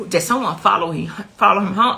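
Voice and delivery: insistent, stumbling question; urgent, pushed asking, mildly frantic; retold frantic questioning. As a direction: relive a frantic call to your son. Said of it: "I'm, I'm frantic. Like, I'm going off".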